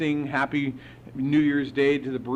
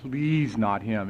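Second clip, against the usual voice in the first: pleading prayer; 5 semitones lower than usual. Retold or imitated. Sponsor praying to be spared a new sponsee, pleading. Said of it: "this is what he prayed to God".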